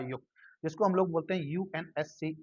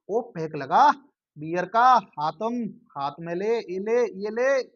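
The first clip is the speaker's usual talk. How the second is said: punchy, louder memory chant; loud mnemonic call; 3 semitones higher, 6 dB louder, slower than usual. Shown as a demonstration. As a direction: call the rhyme out loud, drawing out the end. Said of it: "तो इसका ये relate हो रहा है OPEC". (ज़ोर से, खींचकर रटना)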